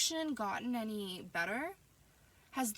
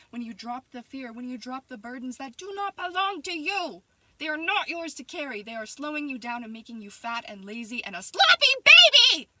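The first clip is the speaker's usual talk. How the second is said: louder, higher coach-style tirade building to a yell; Sue Sylvester rant; 4 semitones higher, 15 dB louder than usual. Acted. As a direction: berate like a ruthless cheerleading coach. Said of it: "On some Sue Sylvester shit".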